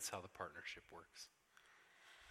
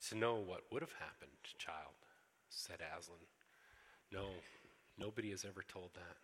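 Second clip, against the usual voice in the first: gentle lion Aslan; 3 semitones lower than usual. Acted.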